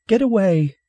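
put-on high, loud child's shout; alarmed child. Nervous child warning off a stranger, alarmed shout. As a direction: cry out to drive him off.

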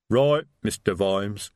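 slow, rumbling troll voice. A narrator's reading. Detritus troll voice.

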